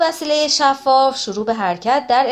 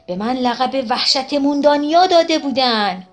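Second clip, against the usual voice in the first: bragging with a laugh in the voice; boastful chuckle; 3 semitones higher, 3 dB louder than usual. Acted. Krato brags about his fearsome nickname.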